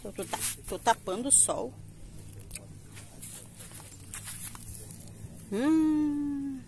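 talking around a lollipop; words muffled by candy in mouth. Real, not acted. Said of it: "tô com um pirulito na boca, por isso que eu tô meio engasgada".

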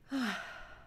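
audible releasing sigh; breath demonstration. Shown as a demonstration. Guide showing listeners how to breathe, releasing sigh. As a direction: let out a high, falling sigh. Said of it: "Like that".

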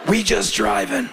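slow, lightly voiced retort; imitating woman driver. Comic repeating woman driver's comeback, slow light imitation. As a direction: echo her comeback, stretched out slowly. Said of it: "she looks back and goes".

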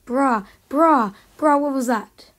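loud outraged yell; raging gamer. Real, not acted. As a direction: bark it out in disbelief. Gamer reacting to a kill.

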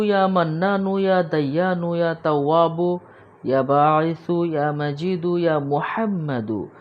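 measured, devout chant of the divine names, each name given its own beat; steady devotional litany with the voice lifting on the names; Arabic dua recitation. Shown as a demonstration. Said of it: "আগে আমি আরবিতে বলে দিচ্ছি".

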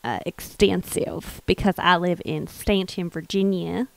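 lightly hammed-up southern accent; put-on southern accent. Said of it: "my southern accent is quite, uh, extensive".

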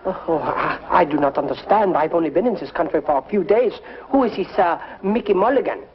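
feigned French innocence in a bad French accent. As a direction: play dumb in a fake French accent. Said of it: "a very bad French accent".

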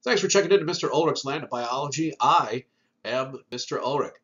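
stuffy nasal voice from a sinus infection. Real, not acted. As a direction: talk through a blocked nose. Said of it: "sorry about the nasally voice".

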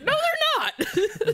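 high, slow, laughing whine; mock a sulky punster, slow and high; whiny Adrian impression. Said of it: "It's like".

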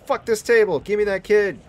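monster voice. Retold or imitated. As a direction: voice the greedy monster grabbing the kid. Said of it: "He's like".

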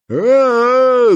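high loud drawn-out scream; terrified scream. A narrator's reading. The boy screaming as Katya pulls, terrified scream. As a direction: scream as if falling. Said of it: "закричал скворец".

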